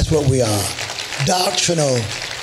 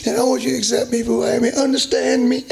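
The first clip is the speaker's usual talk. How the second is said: high, whiny imitation of a pleading daughter; mock pleading daughter; 5 semitones higher than usual. Preacher mocking a daughter begging her mom, high and whiny. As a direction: mimic the teary daughter begging to be accepted. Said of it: "So the girl starts to cry".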